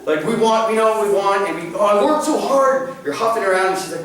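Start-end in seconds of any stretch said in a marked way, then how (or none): 1.8-3.0 mock passive-aggressive sigh. Husband sulking, passive aggressive.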